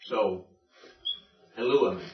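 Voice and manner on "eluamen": "eluamen" stressed on the antepenult, lu; "eluamen" accented on its third-from-last syllable; stress shifted back. Shown as a demonstration. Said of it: "like that".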